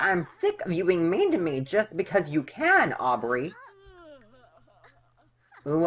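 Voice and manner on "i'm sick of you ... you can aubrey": raised pitch, mock-fed-up retort; put-on exasperation; irritated character. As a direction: act out a game character's annoyed comeback. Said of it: "They're so irritated with each other".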